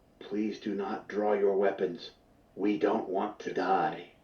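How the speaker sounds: hushed half-whisper. A narrator voices a woman who, after shouting, lowers her voice and half-whispers. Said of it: "she lowers her voice and whispers".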